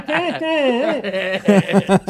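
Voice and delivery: high strained muffled yell through a mask; muffled sleep shouting. Shown as a demonstration. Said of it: "It sounded more like this".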